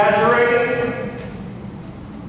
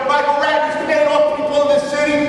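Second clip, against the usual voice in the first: angry heckling; 4 semitones higher than usual. Real, not acted. Heated quarrel with the meeting chair.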